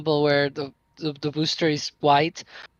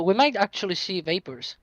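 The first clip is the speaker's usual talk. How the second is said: talking while munching; words around a mouthful of food; mouth full; 2 semitones higher than usual. Real, not acted.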